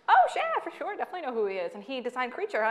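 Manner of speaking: starts very high and loud, then settles; fake casual agreement. Playing along with the clerk about his uncle, mock casual. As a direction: play dumb with forced brightness. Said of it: "And I'm like".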